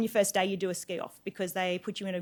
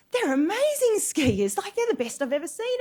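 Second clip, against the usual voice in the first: awed guide; 10 semitones higher, 6 dB louder than usual. Retold or imitated. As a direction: gush about the skiers behind her. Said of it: "He goes".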